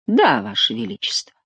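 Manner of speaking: cold threatening whisper. Acted. The count threatens the duke in a cold whisper.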